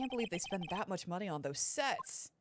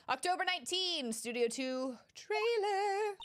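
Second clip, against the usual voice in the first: dramatic reading; 9 semitones higher, slower than usual. Acted.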